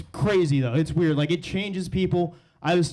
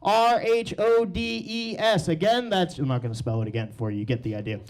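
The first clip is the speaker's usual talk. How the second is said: lightly voiced chatty caller, a touch higher; voicemail caller; 4 semitones higher than usual. A customer rambling on the bar's voicemail, lightly voiced. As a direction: ramble like an oddly specific voicemail. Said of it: "first unheard message".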